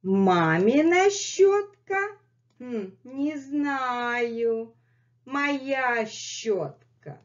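high sing-song question, then a slow hmm answer; playful dialogue. Pretend. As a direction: ask high, answer slowly and stubbornly. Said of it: "acted dialogue about the brush".

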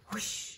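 soft whispered whoosh. A narrator's reading. Friend flies through the air, soft whispered whoosh. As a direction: imitate rushing air under the breath. Narrator imitates something flying by.

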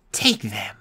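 very slow whispered dubbed voice; bad movie dubbing. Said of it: "the words came quicker than Sophie's lips could move".

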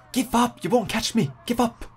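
high, sing-song jeer at a rival; high mock taunt. Real, not acted. Gamer taunting the rider chasing him, high and teasing. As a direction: tease the chaser like a playground taunt.

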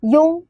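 庸 held out as a clear "yong"; pronunciation demo. Shown as a demonstration. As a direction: model 庸 slowly for learners as "yong". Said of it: "它会念".

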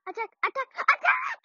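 high, loud battle shout; shouted command. Acted. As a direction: yell the order at them. Commanding the attack loudly.

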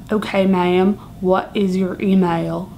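customer-service voice on the phone; support agent. Acted.

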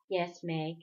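low, softly weary answer; exhausted. A narrator's reading. Father answers his daughter's question, exhausted. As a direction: let the words sink, worn out. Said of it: "Again his voice sounded exhausted".

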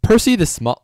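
booming title read; too loud. Shown as a demonstration. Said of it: "that was a bit loud".

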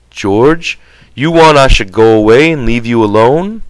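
lightly voiced Lennie, pouting and stubborn; a hint of a big simple man sulking; sulky Lennie. Lennie offers to leave.

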